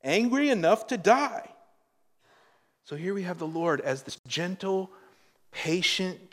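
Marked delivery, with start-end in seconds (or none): 0.0-1.5 a hint of stubborn Jonah, pitch jumping up; Jonah's defiant reply. Preacher voices Jonah talking back to God, mildly defiant. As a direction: read Jonah's answer with a touch of defiance. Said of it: "And he said".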